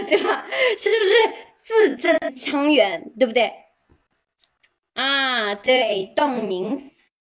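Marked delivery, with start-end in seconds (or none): 1.6-3.1 字正腔圆 slow, each syllable crisp; slow and clear. Shown as a demonstration. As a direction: pronounce every character distinctly. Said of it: "是不是字正腔圆的". (一字一字清楚地说)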